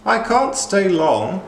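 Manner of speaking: high, loud, curt snap; snapped. Acted. Fairy godmother arrives in a hurry, snapping high and loud. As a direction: cut them off, impatient. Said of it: "she snapped".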